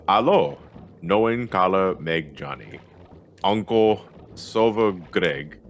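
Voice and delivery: put-on halting, slow stab at a Norwegian accent; sounding out Norwegian words in a mock Norwegian accent; attempted Norwegian accent. Streamer reading a donation aloud in a fumbling Norwegian accent. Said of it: "they want this read in a Norwegian accent".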